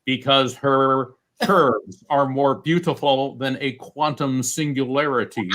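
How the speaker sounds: a hint of a synthesized speech voice, retold; imitating Stephen Hawking. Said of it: "She imitates his voice".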